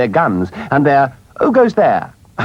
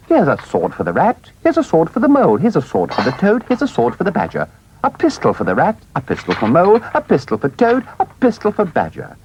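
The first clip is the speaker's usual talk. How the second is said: excited muttering; 7 semitones higher than usual. A narrator's reading. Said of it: "saying excitedly under his breath".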